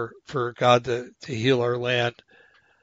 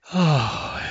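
voiced, falling sigh, moved by the reading; long falling sigh of awe; emotional sigh; 2 semitones higher than usual. Real, not acted. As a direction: let out an overwhelmed "oh" sigh. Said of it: "I'm getting a little emotional".

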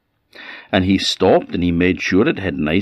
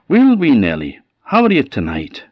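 put-on higher-pitched old woman greeting her pet; fond greeting; 7 semitones higher, 4 dB louder than usual. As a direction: coo a hello to the wee goat.

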